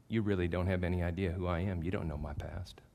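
deadpan, straight-faced menace; mock serious. Husband pranking his new wife, mock serious. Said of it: "And I get serious again".

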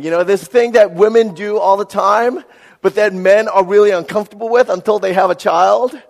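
ordinary talk, nothing marked

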